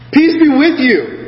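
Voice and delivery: high, slow, drawn-out greeting; Jesus' greeting. Acted. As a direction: lift it high and stretch it out. Reading Jesus' greeting aloud.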